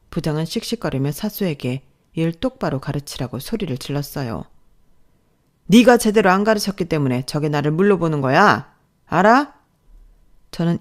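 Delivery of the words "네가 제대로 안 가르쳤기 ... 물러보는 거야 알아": loud accusing shout; angry yelling. Acted. Boss yells at her mentor, loud and accusing.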